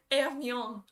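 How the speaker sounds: Hermione as French "airr-MYON", with the R; French R attempt. Shown as a demonstration. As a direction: try Hermione in French, H silent, R sounded. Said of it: "I'm trying".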